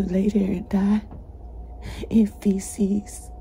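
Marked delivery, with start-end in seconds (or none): 2.1-3.3 hushed, shaken whisper; real whisper. Real, not acted. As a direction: drop to a whisper. Retelling abuse in hushed voice.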